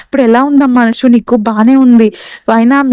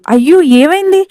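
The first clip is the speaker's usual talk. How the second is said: higher, startled "what happened"; alarmed cry; 5 semitones higher than usual. Acted. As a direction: rush in frightened for the child. Grandmother rushes in alarmed. (కంగారుగా అరుపు)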